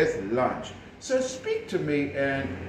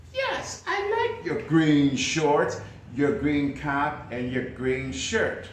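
coach's reply. Shown as a demonstration. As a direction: answer as the friendly coach. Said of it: "coach answers student role".

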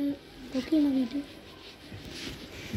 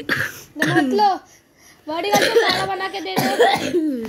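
slow, laughing tease; teasing laugh; 3 semitones higher, slower than usual. Acted. Big brother teasing the kid about the cold, laughing. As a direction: laugh through the words at your little brother.

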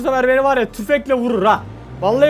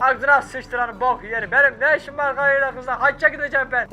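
grumpy grandpa voice; 4 dB quieter than usual. Acted. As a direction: grumble it like a stubborn grandpa. (torununa homurdanan huysuz dede, hafif taklit)

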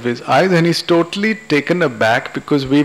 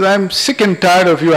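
higher, exasperated acted outburst; fed up; 4 semitones higher than usual. Wife walking out on husband, fed up and higher. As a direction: throw it out in exasperation. Wife quarrels, announces she leaves.

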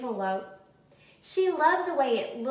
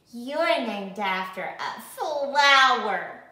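louder, slow, teasing sneer; a touch of a snooty classmate; mild mocking; 6 dB louder, slower than usual. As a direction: drag it out to make fun of her. Classmate mocking her name.

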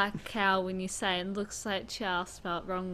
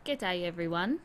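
Australian greeting. Shown as a demonstration. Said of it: "Yeah, something like that".

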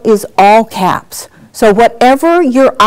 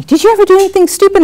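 curious questioner; 11 semitones higher, much faster than usual. Retold or imitated. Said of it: "people used to ask me".

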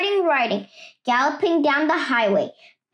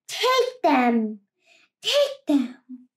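cave echo; slower than usual. Acted. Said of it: "came back the welcome sound".

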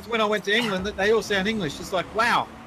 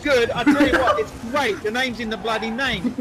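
raised, emphatic put-on English voice; mock English accent; 3 semitones higher than usual. Player defending England to mates, mock English accent. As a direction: argue it in a hammed-up English accent. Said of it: "do an English accent".

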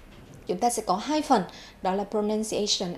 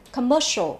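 commercial with the middle syllable stressed; stress on second syllable; 2 semitones higher, 4 dB louder than usual. Shown as a demonstration. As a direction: put the weight on "mer" in "commercial". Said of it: "nhấn vào âm nhị". (nhấn vào âm tiết thứ hai của "commercial")

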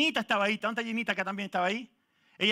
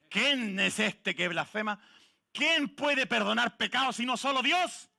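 indignant muttering; 2 semitones higher, slower than usual. Retold or imitated. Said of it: "cavilaron con voz alta".

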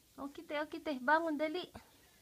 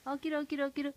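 whispering; much faster than usual. Shown as a demonstration. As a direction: whisper it to the baby. Whispered repeat of wake-up call.

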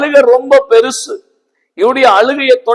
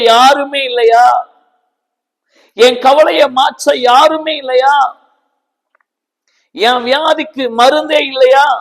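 voicing a grieving believer; 3 semitones higher than usual. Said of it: "என்று சொல்லி".

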